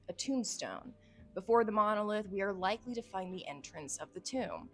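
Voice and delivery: measured dramatic journal reading; story narration. Acted. Reading the case journal to viewers, dramatic narration. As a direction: narrate the investigation like a case file.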